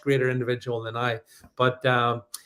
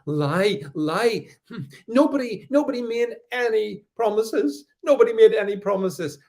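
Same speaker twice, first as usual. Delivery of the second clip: higher, sing-song mock of online critics; mocking the bots; 6 semitones higher than usual. Streamer mimicking accusing bots in a mocking sing-song. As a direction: parrot them with a sneer. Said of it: "coming over me and saying".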